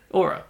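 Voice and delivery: "Aura" run together as one word; mocking imitation. Making fun of co-host's accent, "Aura" as one mimicked word. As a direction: copy the co-host's slurred "or a" as "Aura". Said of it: "what I'm trying to make fun of".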